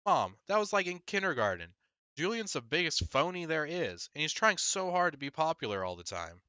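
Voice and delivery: indignant protest. Acted. Boy protesting to his mom, high and indignant. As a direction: scoff at mom's old news.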